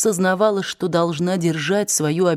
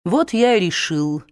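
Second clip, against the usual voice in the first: bitter weary man. Acted. Ashley bitter confession.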